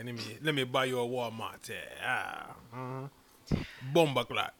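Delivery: hammed-up Jamaican sweet talk, trailing off slow; mock Jamaican lover; hammed-up Jamaican accent, a bad one; fake Jamaican accent. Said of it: "D J accent's so trash".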